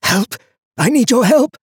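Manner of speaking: high, urgent strained plea; desperate, strangled pleading; hoarse whisper. A narrator's reading. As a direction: beg for help in a forced hoarse whisper. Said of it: "in a hoarse whisper".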